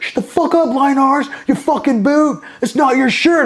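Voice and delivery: very high-pitched imitation of a scolding; mock angry retort. Corporal shutting down boot over shirt, mock angry. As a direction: act out a superior telling off a junior. Corporal snaps back in acted quarrel.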